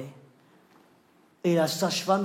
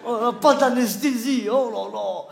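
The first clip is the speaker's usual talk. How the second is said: mocking; 4 semitones higher, 4 dB louder, slower than usual. Mocking her brave vow.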